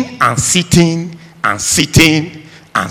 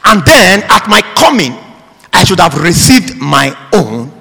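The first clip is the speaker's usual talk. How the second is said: forceful scripture reading; 5 semitones higher, 3 dB louder than usual. Acted. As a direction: declaim the master's rebuke, word by word. Reads scripture aloud forcefully.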